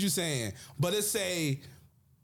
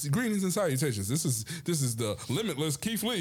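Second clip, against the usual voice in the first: mock formal announcer intro; news reporter voice. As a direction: announce himself like a weatherman. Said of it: "you sound like a news reporter".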